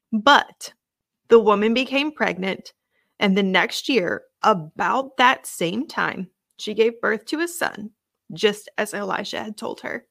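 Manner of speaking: measured, emphatic Bible reading; reading a promise aloud to listeners; scripture reading. A narrator's reading. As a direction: read the passage out deliberately, weighting key words. Reads a scripture passage aloud.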